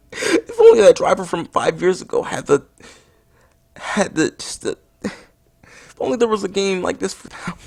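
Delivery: halting lament that keeps breaking off; choked up. Acted. Reviewer mourns the crashed driver from five years ago, choking up. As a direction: struggle through it, acting tearful. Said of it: "voice is choking up".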